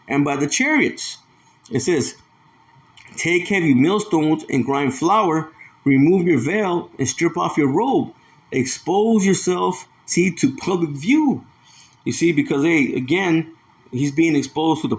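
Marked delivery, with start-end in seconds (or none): 3.2-11.5 a preacher reading judgment to his listeners, slow and weighty; slow scripture reading. Acted. Preacher reading judgment verse to listeners, slow. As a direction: read the verse slowly and deliberately, like preaching.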